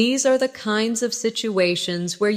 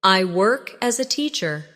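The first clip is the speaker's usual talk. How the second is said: a little slower, for learners to repeat; slowly. Shown as a demonstration. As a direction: say it again at a measured learner's pace. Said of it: "Say it again slowly".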